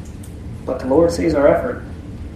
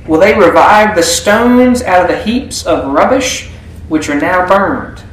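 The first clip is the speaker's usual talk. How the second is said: raised, jeering voice of a mocking enemy; mocking taunt; 4 semitones higher, 3 dB louder than usual. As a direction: taunt the builders as a scornful neighbor. Sanballat taunting Jews, voiced mockingly.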